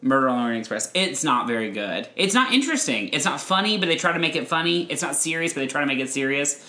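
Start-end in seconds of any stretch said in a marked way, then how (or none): 2.2-6.6 higher, quick exasperated list; emphatic rant. Real, not acted. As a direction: rattle off the complaints, pitched up. Emphatic complaint building.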